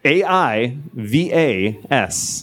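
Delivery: A I V A S, each letter slow and separate; spelling it out. Shown as a demonstration. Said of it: "can you spell it?".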